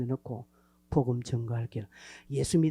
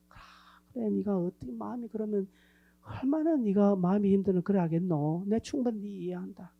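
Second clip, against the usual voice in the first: gentle sympathy; 3 dB quieter than usual. Retold or imitated. Voicing gentle empathy to friend.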